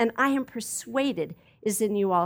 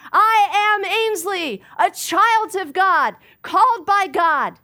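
louder, higher and slow, proclaiming each word; bold declaration; 8 semitones higher, 8 dB louder, slower than usual. Shown as a demonstration. Preacher modeling a confident affirmation for listeners, loud and slow. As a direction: declare it like a confession of faith. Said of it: "Can you say".

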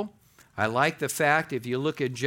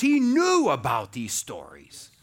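ordinary talk, nothing marked

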